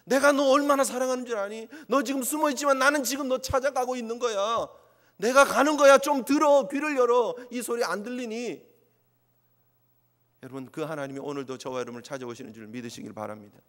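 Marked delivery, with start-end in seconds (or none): 0.0-8.7 louder, pleading call of love; loving divine call. Retold or imitated. God calling out to hiding Adam, loud loving plea. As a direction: call out to the one hiding, tenderly urgent. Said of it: "하나님은 그렇게 오시는 거예요".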